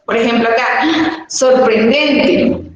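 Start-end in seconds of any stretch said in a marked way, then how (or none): 1.3-2.6 "sorprendente" drawn out slowly as an exclamation; expressive exclamation. Shown as a demonstration. Teacher shows pupils how exclamation marks change a word, expressive exclamation. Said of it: "lo hacemos con más expresión".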